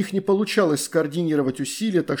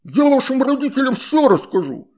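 high, loud water-spirit threat; threatening; 10 semitones higher, 6 dB louder than usual. A narrator's reading. Water spirit threatening to tell parents, high and loud. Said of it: "пригрозил водяной".

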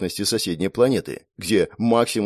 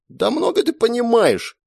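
higher indignant outburst; 14 semitones higher, 3 dB louder than usual. A narrator's reading. Brother snapping at his sister, indignant. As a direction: brush her off, offended. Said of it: "возмутился брат".

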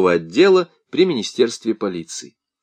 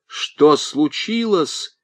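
frightened; 6 semitones higher, much slower than usual. A narrator's reading. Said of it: "попятился Демаре".

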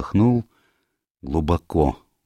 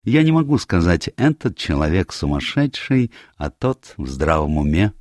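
lightly voiced Poirot; 2 semitones higher than usual. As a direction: weigh it as a measured detective.

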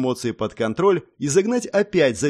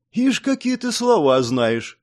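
surprised whistle; 6 semitones higher, slower than usual. A narrator's reading. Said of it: "я присвистнул от удивления".

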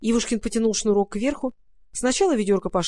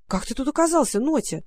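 exclaiming; 4 semitones higher than usual. Acted. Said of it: "воскликнул Ивушкин".

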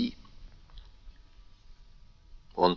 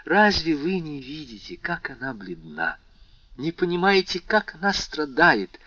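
urgent pleading; 8 semitones higher than usual. Acted. Valentine pleads for Haydée.

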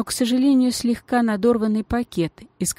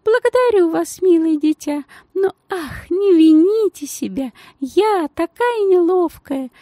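much higher, sugary lady's voice; gushing society lady in a tiny high voice; thin high voice; 10 semitones higher, 4 dB louder than usual. A narrator's reading. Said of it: "поразительно тонким для такой представительной особы голосом".

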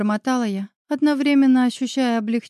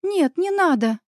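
high, quick firm refusal; blurted confidently; 7 semitones higher, slower than usual. Acted. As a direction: cut her off decisively. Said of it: "уверенно выпалила Оля".

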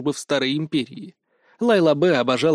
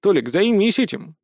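amused, higher quip; smirking; 6 semitones higher than usual. A narrator's reading. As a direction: toss it off with a smirk. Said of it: "усмехнулся я".

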